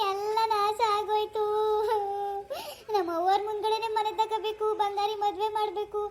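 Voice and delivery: singsong wailing. Acted. Wife laments to husband that the ghost took all their money, wailing. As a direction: wail over the loss, stretching the line endings. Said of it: "ಅದ್ ಏನಾರಿ ರಾಗ ಹೇಳ್ತಿ".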